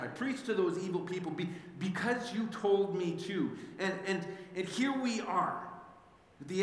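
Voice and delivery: indignant rant building up to the end; Jonah's angry complaint. Acted. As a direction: vent at God like a wronged prophet.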